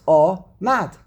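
"Omad" as two separate beats, O, MAD; split into syllables. Shown as a demonstration. Teacher counting syllables for the class, "Omad" broken in two. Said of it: "Omad has how many syllables?".

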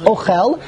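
"ochel" said o-KHEL; stress on last syllable. Shown as a demonstration. Teacher placing emphasis on the chaf, end-stressed "ochel". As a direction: put the weight on the closing "chel" of "ochel". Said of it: "You put the emphasis on the end".

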